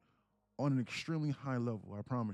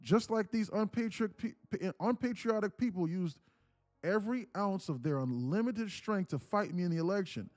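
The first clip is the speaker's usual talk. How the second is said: building from raised to near shouting; choppy reading voice; 6 semitones higher, 5 dB louder than usual. Shown as a demonstration. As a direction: chop each phrase, louder and higher toward the end. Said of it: "reading in this choppy voice".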